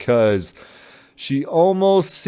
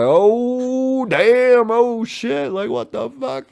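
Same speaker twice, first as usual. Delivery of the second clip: much higher, mock stunned gasping; shocked council; 13 semitones higher, much slower than usual. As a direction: play the whole room caught off guard.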